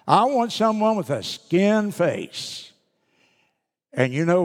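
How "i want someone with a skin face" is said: put-on higher, slow pleading little boy; pleading child. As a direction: plead slowly like a small child. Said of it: "the little boy's reply was just precious".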